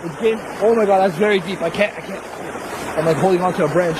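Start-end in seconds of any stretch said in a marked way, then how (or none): 1.6-3.0 strained. Real, not acted. Struggling in deep water.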